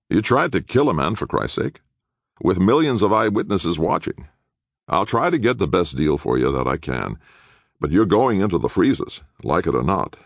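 blunt lawyer, lightly voiced; exasperated public defender. Attorney warning clients of the freezers, exasperated. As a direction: give the clients the hard truth.

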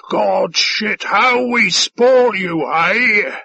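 high, boisterous boasting; slow, swaggering character voice; shouted. A narrator's reading. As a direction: play the overbearing, hearty alien host. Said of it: "he shouted".

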